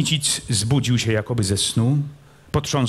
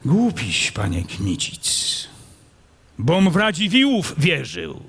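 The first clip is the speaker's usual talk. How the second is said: raised, excited voicing of a nobleman; character voice; 6 semitones higher than usual. A narrator's reading. Captive nobleman answering the prince, raised and urgent. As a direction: lift the voice into the quarrel.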